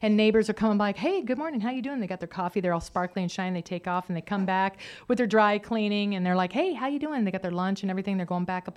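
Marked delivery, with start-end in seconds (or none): 1.0-2.0 bright sing-song greeting, higher; mock the cheery neighbors passing by; a lightly voiced happy neighbor; chirpy neighbor. 6.5-7.2 bright sing-song greeting, higher; mock the cheery neighbors passing by; a lightly voiced happy neighbor; chirpy neighbor.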